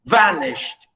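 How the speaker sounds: vanished with long strong VAN, falling away; weight the first syllable of vanished; first-syllable stress. Shown as a demonstration. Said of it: "stress on the first one".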